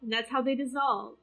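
tender reassurance. Acted. Player holds Xenophia by the shoulders, gently reassuring. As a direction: soothe her like a loved one. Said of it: "and saying".

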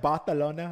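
"Barcelona" with a th sound for the c; imitated Castilian lisp. Host asking if she really talks so, lisped "Barcelona". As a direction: lisp the c in "Barcelona", Spanish style. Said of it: "Is that how she talks for real?".

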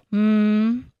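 closed-mouth "hm"; just hum it briefly in reply; low-key hum. A narrator's reading. Narrator only hums back to the friend, noncommittal hum. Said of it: "brummte ich nur".

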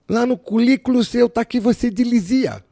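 high, slow mock boss with l for r; boss with Cebolinha speech. Boss quizzes the rookie, teller mimics her slowly and high. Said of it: "Ela metia o Cebolinha".

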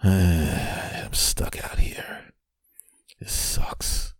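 very slow, sighing whisper; dejected whisper. Acted. Man locked out on the fire escape, dejected whisper. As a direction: sigh the words out in defeat.

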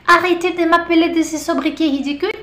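hint of indignant protest; quoted character line. Teacher quoting Monsieur Dubon's complaint, lightly indignant. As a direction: lightly act the annoyed man. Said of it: "ele sempre falava".

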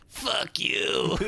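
high, strained shout imitation; mock defiant yell. Imitating Boris still defiant when taken out, mock shout. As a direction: act out a defiant movie yell.

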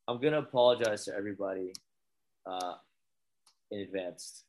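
groggy, low-energy hungover voice. Real, not acted. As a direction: mumble it, hungover and tired. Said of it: "I'm hungover".

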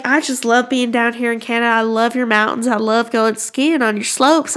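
imitating a gushing Southern lady; Southern US accent. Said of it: "they talk like that".

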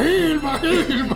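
calling a name in a high, loud voice; retold yell. Retelling how he yelled for Gilma, with a high loud call. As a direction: shout the name across the room. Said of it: "Y yo empecé a gritar".

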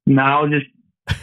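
muffled phone line; underwater. Real, not acted. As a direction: sounds like talking underwater. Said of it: "You sound like you're underwater".

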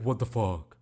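low, mock deep voice; teasing deep-voice imitation. Schoolmates teasing the podcaster about his voice, mock deep voice. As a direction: drop the pitch to tease someone's deep voice. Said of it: "used to always tease my deep voice".

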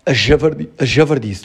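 talking through hiccups; words broken by hiccups. Real, not acted. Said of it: "até estou com soluços".

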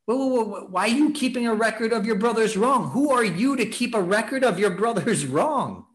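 a father urgently begging his resentful son; pleading father. Retold or imitated. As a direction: plead with your son to let the grudge go. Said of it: "the father's pleading with him".

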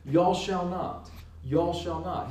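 southern "y'all", drawn out slowly; southern accent. Shown as a demonstration. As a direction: lean lightly into a southern accent. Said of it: "put a southern accent on it".

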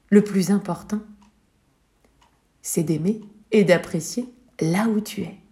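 hushed key point; whisper. Real, not acted. Storyteller whispering the main lesson to the child. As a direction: whisper it like a secret. Narrator confides to child listener.

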